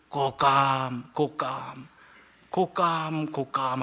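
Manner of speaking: long, drawn-out creature cry; imitated animal calls. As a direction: howl the word slowly like a strange beast. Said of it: "이렇게 우는 거예요". (길게 늘여 우는 동물 소리 흉내)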